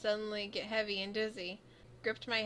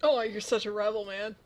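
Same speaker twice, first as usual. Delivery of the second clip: teasing; 8 dB louder than usual. Real, not acted. Teasing the character's story.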